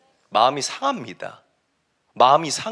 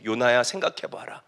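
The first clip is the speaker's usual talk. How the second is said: low, softer admonishing voice; God; 4 semitones lower, 4 dB quieter than usual. Acted. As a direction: quietly urge him to think. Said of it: "하나님이 요나에게 이렇게 말씀하세요". (낮고 조용히 타이르는 목소리)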